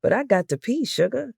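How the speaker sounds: high, whiny plea; a light whine at his wife; whining. A narrator's reading. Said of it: "Hubert whined".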